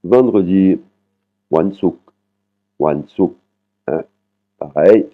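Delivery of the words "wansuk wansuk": Wansuk with a short "oo" on a falling last syllable; short vowel, falling tone. Shown as a demonstration. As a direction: let "suk" in Wansuk drop, vowel short. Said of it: "intonation qui tombe sur la dernière syllabe". (Wansuk, voyelle courte, intonation qui tombe)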